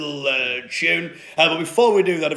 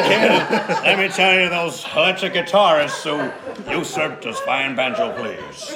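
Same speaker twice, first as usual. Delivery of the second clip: put-on Pakistani accent; 3 semitones lower than usual. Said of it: "That's my Pakistani accent".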